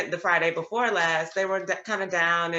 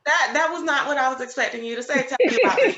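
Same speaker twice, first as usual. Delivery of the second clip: laughing surprise; 9 semitones higher, 5 dB louder, faster than usual. Retold or imitated. Teacher retells surprising answer.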